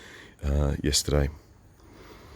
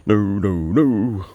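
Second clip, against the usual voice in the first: defensive protest; 5 semitones higher, 6 dB louder, much slower than usual. Retold or imitated. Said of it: "waving my Canberra standard and saying".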